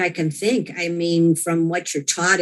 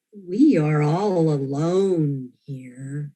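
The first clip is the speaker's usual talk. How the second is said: slow, mournful, lightly voiced stranger; 4 semitones lower, much slower than usual. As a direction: drag it out like a lost soul, mildly. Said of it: "this voice came out that was so mournful".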